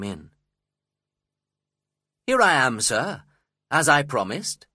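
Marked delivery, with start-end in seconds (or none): 2.3-4.7 bright, louder storybook greeting, pitched up; cheerful arrival, higher and louder. A narrator's reading. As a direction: announce yourself cheerfully. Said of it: "I said cheerfully".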